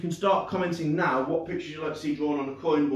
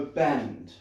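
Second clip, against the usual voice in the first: low, falling "Bend" as a command; demonstrated command; 4 semitones lower than usual. Shown as a demonstration. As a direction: say "Bend" low and deliberate, willing it to happen. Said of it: "Look at it and go".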